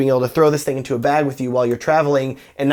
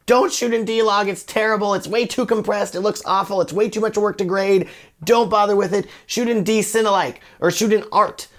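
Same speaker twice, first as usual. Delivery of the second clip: higher-pitched mimicked complaints, rattled off as a list; mock naysaying; 4 semitones higher than usual. Online naysayers warning against a picture profile, mock complaining. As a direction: imitate everyone warning you off.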